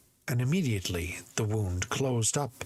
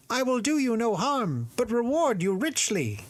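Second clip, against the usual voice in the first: high, otherworldly spirit pleading; eerie high spirit voice; 14 semitones higher, 4 dB louder than usual. Acted. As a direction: voice the bottle spirit well above your own. Spirit promises reward.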